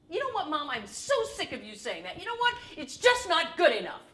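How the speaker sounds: rising to a fed-up shout at Mom; angry outburst. Acted. Son yelling at his mother in frustration, angry.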